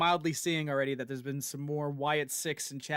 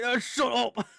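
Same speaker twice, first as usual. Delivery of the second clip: laughing mock yell; 8 semitones higher, 5 dB louder, slower than usual. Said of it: "he's like".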